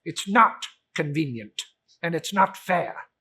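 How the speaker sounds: loud stress on not; grumbling Scrooge. Acted. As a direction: grumble at the clerk.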